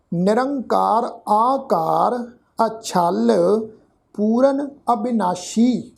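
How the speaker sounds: slow, word-by-word verse reading; measured scripture reading. Shown as a demonstration. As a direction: read each word of the verse slowly and distinctly.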